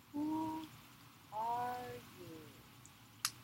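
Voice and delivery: small high guard's voice; little gatekeeper. Acted. Little man at the window questions Inanna, high small voice. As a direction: peep out as a tiny gatekeeper.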